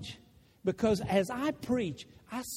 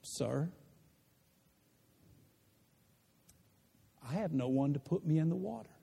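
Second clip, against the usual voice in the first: excuse; 6 semitones lower, 5 dB quieter, faster than usual. Acted. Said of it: "He gives an excuse".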